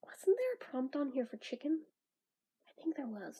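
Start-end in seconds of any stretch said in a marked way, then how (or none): 0.0-1.8 hushed, breathy whisper to herself; whispered realization. Retold or imitated. Vlogger recalling the chicken prompt idea, whispering. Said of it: "I was like".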